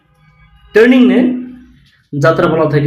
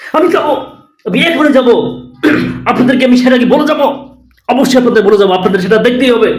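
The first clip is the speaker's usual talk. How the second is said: pitched-up hammed-up anchor sign-off; one last breathless hype; mock news reporter; 5 semitones higher than usual. Parody reporter refusing to sign off, hammed-up excitement. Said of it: "Republic বাংলার সাংবাদিকের স্টাইলটা আমি দেখালাম".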